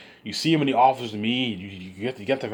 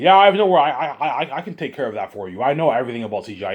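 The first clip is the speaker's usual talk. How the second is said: happy, laughing voice of Peter Jackson; 3 dB louder than usual. Retold or imitated. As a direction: chuckle through it like a cheerful director. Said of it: "You see him all happy".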